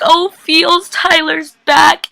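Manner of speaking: high, very slow gushing oh; excited squeal. Retold or imitated. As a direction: stretch it out high with delight. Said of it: "and I'm like".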